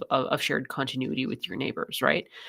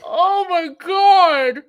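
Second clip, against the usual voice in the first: very high, slow, disbelieving exclaim; stunned high oh my God; 13 semitones higher, 9 dB louder, much slower than usual. Real, not acted. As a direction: stretch it out in panicked disbelief. Tight election, the speaker panicking.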